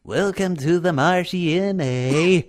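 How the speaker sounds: a light Canadian halfling welcome; Canadian accent. Acted. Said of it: "They're supposed to be Canadian".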